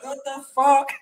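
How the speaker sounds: high, laughing what-the; shocked Sagan. Retold or imitated. Sagan losing the bottle, high laughing disbelief. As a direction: play the baffled rider. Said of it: "Sagan's like".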